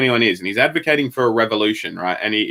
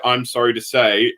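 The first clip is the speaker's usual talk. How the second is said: mock slow reading; slower than usual. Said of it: "What demeanor am I meant to read".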